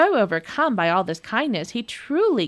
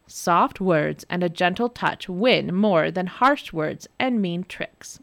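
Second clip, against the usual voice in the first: pleading. Acted. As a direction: beg her gently and slowly. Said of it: "begged her husband".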